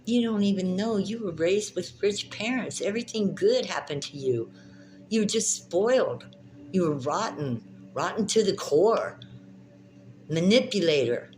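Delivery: high, loud scolding; angry accusation. Real, not acted. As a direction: lash out at him.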